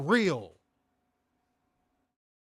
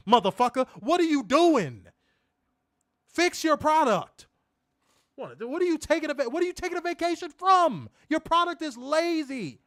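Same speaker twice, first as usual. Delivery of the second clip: raised, heated yelling at the company; angry rant; 5 semitones higher than usual. Real, not acted. Host ranting at Triple H about his lazy product, raised and angry. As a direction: tear into them, voice up and hot. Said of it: "I have not had a rant in a minute".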